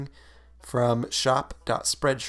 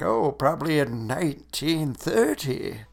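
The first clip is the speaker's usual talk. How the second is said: a lightly voiced old-timer, with a small lift in pitch; old man voice; 2 semitones higher than usual. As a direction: slip into a hint of an old man. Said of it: "said that answer in, like, an old man voice".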